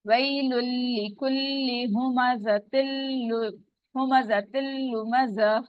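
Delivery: slow measured tajweed recitation; Quranic recitation. Shown as a demonstration. Teacher reciting Surah Al-Humaza for students, tajweed chant. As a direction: chant the verse slowly with care.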